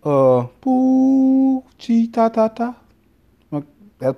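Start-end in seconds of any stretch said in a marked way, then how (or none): 0.6-2.8 high, loud gibberish Portuguese; hammed-up fake Portuguese syllables; mock Portuguese accent. Bragging to his wife about his accents, mock Portuguese. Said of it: "I can do Portuguese".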